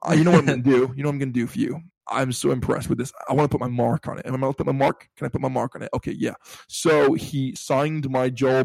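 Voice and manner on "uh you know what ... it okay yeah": lightly imitated American accent; Troy Baker. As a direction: have a modest go at an American accent. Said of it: "try and do an American accent".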